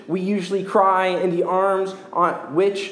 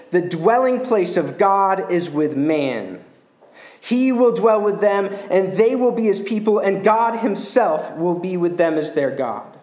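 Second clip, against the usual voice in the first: proclaimed scripture. Acted. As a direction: proclaim the promise to the congregation. Second scripture reading, proclaimed.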